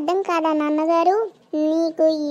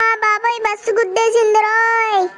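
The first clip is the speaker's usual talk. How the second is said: pained cry; 5 semitones higher, 4 dB louder than usual. Acted. Hit by a bus.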